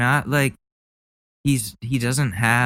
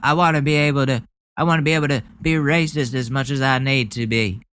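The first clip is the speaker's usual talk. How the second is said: mock bigot voice; 3 semitones higher, faster than usual. Mocking opponents' freedom claims.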